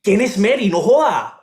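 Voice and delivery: angry demand. Acted. Son finds father's texts.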